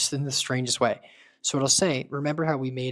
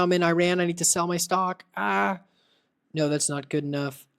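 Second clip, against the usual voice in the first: panicked caller; 5 semitones higher than usual. Pretend. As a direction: beg for help as if the market is crashing.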